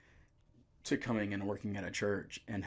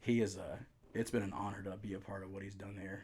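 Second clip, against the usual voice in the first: emotional. Real, not acted. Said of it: "I'm emotional".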